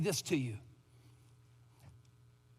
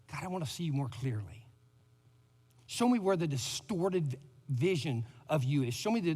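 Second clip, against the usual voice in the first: simple prayer. Acted. Pastor modelling a prayer for the congregation, hushed. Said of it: "say to him simply this".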